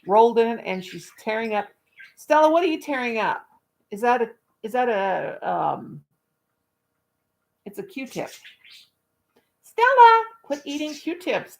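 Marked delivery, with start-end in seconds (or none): 2.2-3.4 higher questioning call to the dog; scolding pet. Real, not acted. Owner asking her dog what she's tearing up, high scold. 9.6-11.6 loud high name, then slow command; scolding the dog. Real, not acted. Owner telling her dog to stop eating Q-tips, loud then slow.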